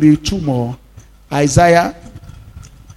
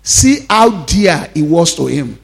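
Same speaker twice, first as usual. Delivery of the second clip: slow, marvelling quote; slow wonder; slower than usual. Acted. Pastor voicing the Jews at the tomb, slow wonder. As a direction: dwell on how dear. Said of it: "They say".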